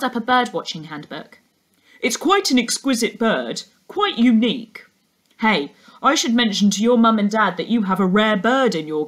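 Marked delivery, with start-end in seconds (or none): 2.0-9.1 a hint of an odd, chatty stranger calling out; lightly voiced birdwatcher. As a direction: call across to the girl, mildly odd and friendly. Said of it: "he called out".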